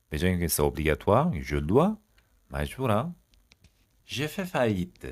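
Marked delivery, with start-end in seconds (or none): 4.0-5.1 each syllable drawn out slowly for learners; slow model phrase. Shown as a demonstration. French teacher to students, slow model read. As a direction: say it slowly and clearly.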